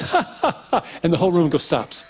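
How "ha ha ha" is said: a much higher, mock squeaky laugh; hammed-up high-pitched ha ha ha; imitating a laugh. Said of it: "he goes".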